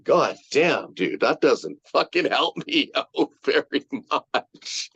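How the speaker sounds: laughing through the words; laughing quote. Retold or imitated. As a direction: chuckle through the complaint. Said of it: "I'm like".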